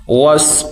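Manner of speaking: وس with a thick emphatic s; heavy sad. Shown as a demonstration. Teacher isolating the letter, وس with heavy s. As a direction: make the s of وس full and heavy. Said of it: "سواد کو موٹا کریں گے".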